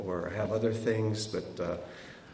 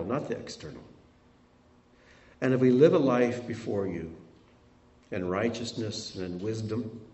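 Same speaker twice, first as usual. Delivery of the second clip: prayer. Acted. Pastor closing the sermon in prayer, hushed and earnest.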